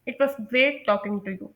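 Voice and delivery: slow, clear closing phrase; slow model sentence. Shown as a demonstration. Teacher slowly modelling a goodbye line. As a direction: say it slowly for learners to copy. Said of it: "at the end आप कह सकते हैं".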